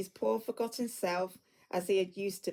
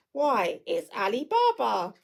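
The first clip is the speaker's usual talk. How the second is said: ecstatic exclaim; 2 semitones higher, 7 dB louder than usual. Acted. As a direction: cry out in delighted recognition. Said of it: "exclaimed in ecstasy".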